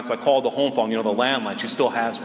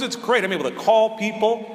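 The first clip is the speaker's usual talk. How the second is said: mom's voice pitched higher, pleased; proud mom; 4 semitones higher than usual. Retold or imitated. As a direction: lift it up like a proud mother showing off. Mom proud of her phone.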